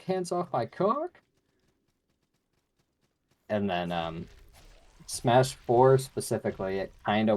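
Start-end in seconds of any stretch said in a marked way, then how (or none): 0.0-1.2 high, drawn-out mock taunt; Falco's taunt. Imitating the game taunt done together, high mocking voice. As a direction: stretch it out slowly in a high put-on voice. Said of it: "it's like".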